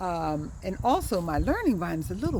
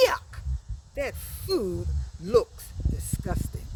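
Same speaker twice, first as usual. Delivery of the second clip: disgusted; slower than usual. Shown as a demonstration. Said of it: "you must say that word with emotion".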